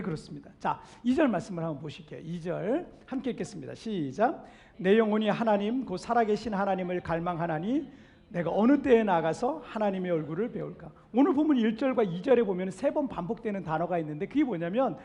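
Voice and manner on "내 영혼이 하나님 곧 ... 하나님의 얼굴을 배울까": low, measured verse reading; scripture reading. Acted. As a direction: read the verse aloud evenly, pitched down. Reads the verse aloud.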